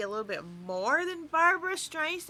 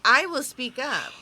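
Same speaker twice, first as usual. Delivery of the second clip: pointedly louder reply; speaking up; 7 dB louder than usual. Shown as a demonstration. Co-host answering a request to speak up, louder. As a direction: raise the volume to prove it. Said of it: "you need to speak up".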